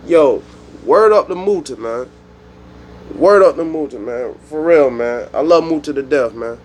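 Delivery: American street slang, punched openings. Shown as a demonstration. Showing his own slang instead of patois, American style. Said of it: "let me say this in American slang".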